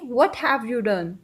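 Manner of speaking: What have you done drawn out word by word; slow English model sentence; very slow teaching demo. Shown as a demonstration. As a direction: model it very slowly for learners. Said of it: "English में कैसे बोलेंगे?".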